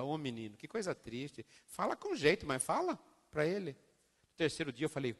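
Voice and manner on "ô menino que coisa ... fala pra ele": mother's soft sadness. Retold or imitated.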